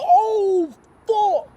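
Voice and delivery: loud, high drawn-out oh; hammed-up shocked yell; acted shock. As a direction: blurt it out like stunned onlookers. Acts group's shock at punch.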